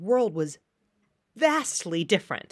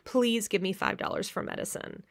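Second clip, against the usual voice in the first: mock emotional plea; 5 dB quieter than usual. Shown as a demonstration. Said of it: "the appeal to your emotions".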